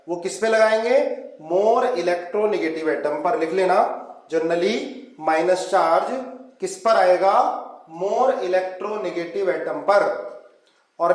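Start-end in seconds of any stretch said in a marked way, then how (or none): 1.4-3.4 very slow, measured key phrase; drawn-out words for note-taking; slow dictation. Real, not acted. Teacher drills rule for note-taking. 8.0-10.0 very slow, measured key phrase; drawn-out words for note-taking; slow dictation. Real, not acted. Teacher repeats rule to the class.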